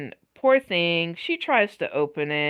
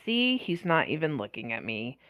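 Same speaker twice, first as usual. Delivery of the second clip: much softer disappointed aside to herself; inner sigh; 9 dB quieter than usual. Retold or imitated. Shop girl sulks to herself, a soft let-down murmur. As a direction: mutter it under your breath, let down.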